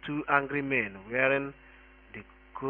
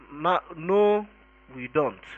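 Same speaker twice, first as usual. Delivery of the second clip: loud, higher-pitched protest easing off; irritated exclamation; 3 semitones higher, 6 dB louder, slower than usual. A narrator's reading. Older philosopher overruling his partner, loud and irritated. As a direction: contradict your partner with exasperation. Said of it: "exclaimed Magic Ties in irritation".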